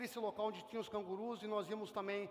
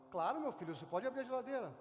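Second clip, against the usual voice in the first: kindly father; faster than usual. Retold or imitated. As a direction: gently grant permission like a loving dad. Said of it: "E o pai fala".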